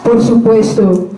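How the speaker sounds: measured poem reading with pauses between lines; poetry recitation. Acted. Sharing a Spanish poem with listeners, measured recitation. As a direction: read it out line by line as verse.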